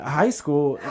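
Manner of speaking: clueless repeat; puzzled new word. Retold or imitated. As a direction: sound like you never heard those words. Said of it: "said it like he had just found out a new word".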